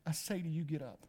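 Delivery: very soft, low, near-whispered words; hushed command. Acted. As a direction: speak tenderly, almost in a whisper. Jesus tenderly raising the dead girl.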